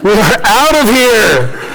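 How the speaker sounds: drawn-out, comic alarm; mock alarm. Peter fleeing the naked madman, comic alarm. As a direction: stretch it out as you bolt.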